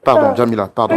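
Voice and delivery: loud, rushed pleas for forgiveness, half laughing; frantic pleading. Real, not acted. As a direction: beg her urgently over the noise. L'animateur supplie Jamila en panique. (supplication affolée, forte, mi-rieuse)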